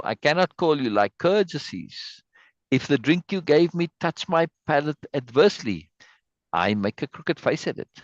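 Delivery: measured theatrical reading of verse; dramatic reading. Acted. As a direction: read the Shakespeare lines like a stage recital. Reads Shakespeare passage aloud.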